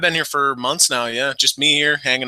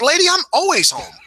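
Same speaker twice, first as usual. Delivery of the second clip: quoting himself; 3 semitones higher than usual. Retold or imitated. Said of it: "I'm like".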